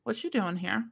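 hammed-up flirty come-on; joking smooth-talker impression; mock pickup voice. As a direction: play a cheesy suitor at the bar. Jokey pickup lines voiced for Adam.

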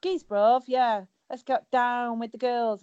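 lightly put-on youth slang voice; mock London youth. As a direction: imitate a teenager's slang, teasing.

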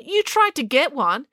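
high-pitched incredulous question; exclaiming. A narrator's reading. Finn learns April tried to get a trap, exclaiming. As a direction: ask in high-pitched disbelief. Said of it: "exclaimed Finn".

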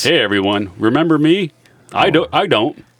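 sultry narrator voice. Acted. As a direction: lean into the intro-voice persona. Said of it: "the sultry voice that precedes every episode".

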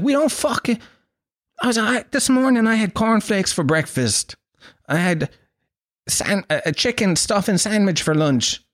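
high-pitched, exasperated self-defence; indignant protest. Retold or imitated. Irishman denying potato breakfasts to Australians, high indignant protest. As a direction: protest it high, as if wrongly accused.

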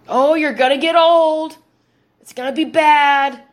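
mocking country hick accent; hammed-up rural hick talk. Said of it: "see how they talk like Hicks with this".

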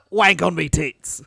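slow mock Australian accent; broad imitation of an Australian. Shown as a demonstration. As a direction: draw it out like an Aussie. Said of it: "the best Australian accent I can do".

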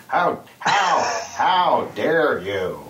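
very slow, mock-indignant; a terrible mock outrage; Adam Carolla impression. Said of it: "my Adam Carolla".

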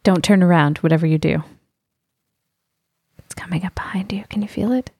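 creepy whispered warning, building to a hush; spooky ghost-story voice, dropping to a whisper. Acted. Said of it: "in a spooky voice".

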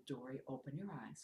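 soft and hushed, the Holy Spirit speaking; soft, hushed inner voice; God's quiet voice. Retold or imitated. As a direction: gently say "open your eyes" like a quiet inner voice. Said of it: "And it was a whisper".

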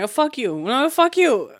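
playful mock cursing back and forth; fake cursing. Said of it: "fake curse each other".

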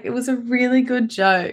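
said through a real laugh; amused and half laughing. Real, not acted. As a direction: giggle out the punchline of the story. Retelling her own teary joke.

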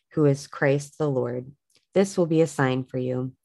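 measured, even read-aloud of a Bible story; understated narration of scripture. Acted. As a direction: read the verses clearly, phrase by phrase.

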